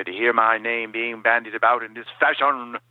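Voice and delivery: prissy theatrical Doctor Smith, affronted; a fussy offended aristocrat, bing bong beat on "fashion"; Doctor Smith impression. Fan quoting Smith's indignant line to the host, in a fussy theatrical voice. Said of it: "on the show when he would say".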